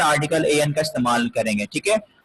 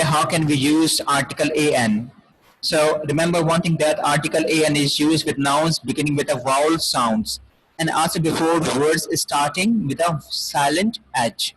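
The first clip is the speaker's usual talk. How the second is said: slow dictation read; much slower than usual. Shown as a demonstration. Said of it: "teacher reads English rule slowly".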